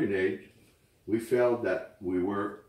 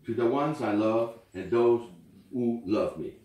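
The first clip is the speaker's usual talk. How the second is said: poem recitation; 3 dB louder than usual. Acted. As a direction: read it gently, like at a memorial. Reads a farewell poem aloud.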